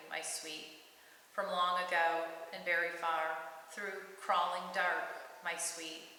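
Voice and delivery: measured, intimate poem read with long pauses; poetry reading. Acted. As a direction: author reading her own short poem aloud. Reads her own poem.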